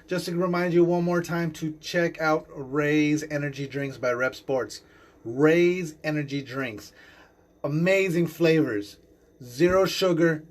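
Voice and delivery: slow, deliberate ad read with words spelled out; sponsor ad read. Acted. Host reading a sponsor spot to listeners, slow ad voice. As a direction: sell the energy drink like a live podcast ad.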